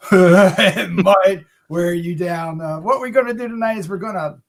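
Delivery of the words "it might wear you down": slow, drawn-out repeat through a laugh. Real, not acted. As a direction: laugh your way slowly into the line. Repeats own line with laugh, drawn out.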